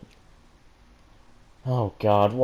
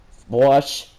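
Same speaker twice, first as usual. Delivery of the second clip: excited exclaim; 4 semitones higher, 7 dB louder than usual. Real, not acted. Reader reacts to blush.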